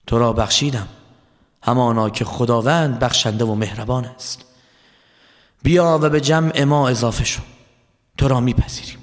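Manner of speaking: low, unhurried, forgiving voice; gentle, smiling. Acted. Imam Hussein forgives the penitent Hor, gentle and calm. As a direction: welcome him kindly with a slight smile. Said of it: "به او لبخند زدند".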